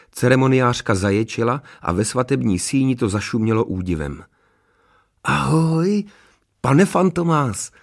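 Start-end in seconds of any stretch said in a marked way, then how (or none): 5.2-7.7 high, drawn-out cheery call; young greeter. A narrator's reading. Honzík greets the giant at the wedding, calling out. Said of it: "pozdravil obra Honzík".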